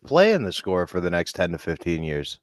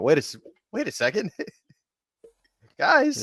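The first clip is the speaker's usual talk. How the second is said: mock Kyrie; 11 semitones higher than usual. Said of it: "and he went".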